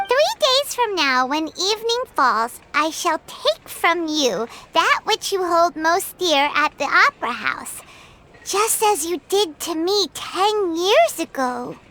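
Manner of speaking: ominous letter reading. Acted. Paimon reading the thief's warning letter, lightly menacing. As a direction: read it like the thief's threat.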